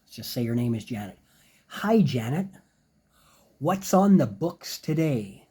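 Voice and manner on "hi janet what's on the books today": friendly greeting. Shown as a demonstration. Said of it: "So you could say something like this".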